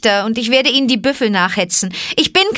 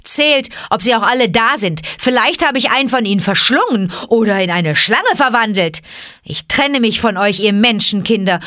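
raised, higher-pitched taunting; scornful call; 4 semitones higher, 4 dB louder than usual. Acted. Mowgli taking leave of the frightened villagers, taunting scornfully. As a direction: taunt them loudly with open contempt. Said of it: "rief Mowgli höhnisch".

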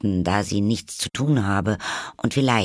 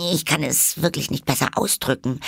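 high, quick polite reply; very polite girl; 8 semitones higher, faster than usual. A narrator's reading. Alice answers the caterpillar very politely. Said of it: "erwiderte Alice sehr höflich".

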